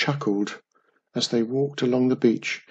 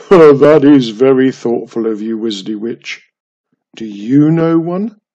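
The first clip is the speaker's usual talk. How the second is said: goblin voice; 12 dB louder than usual. Acted. Goblin thanks Wiz.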